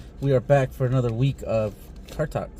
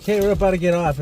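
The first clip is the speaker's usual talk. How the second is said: imitating girlfriend; 7 semitones higher, 6 dB louder than usual. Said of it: "you tend to always pop shit off at the end".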